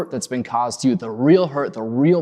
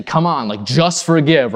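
dismissive God; 3 semitones higher, 6 dB louder than usual. Retold or imitated. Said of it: "He's not looking at you saying".

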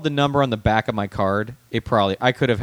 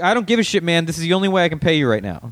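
mock-heated comeback, pitched up; a higher, heated retort to the cabbie; retold retort, higher; 5 semitones higher, faster than usual. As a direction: fire it back at the cabbie, heated but retold. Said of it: "I was like".

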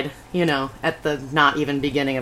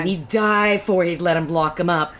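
folksy auntie in a Scottish-style brogue. Shown as a demonstration. Demonstrating the auntie voice on moonshine talk, put-on brogue. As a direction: read it in a put-on auntie accent. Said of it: "it's the auntie voice".

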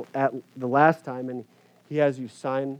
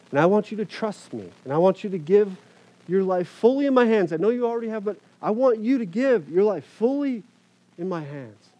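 higher and louder, building fervent command; impassioned divine voice; 6 semitones higher, 6 dB louder than usual. Retold or imitated. God urging the pastor to trust him, fervent and swelling. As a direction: let God's urging swell with conviction. God's words retold, rising intensity.

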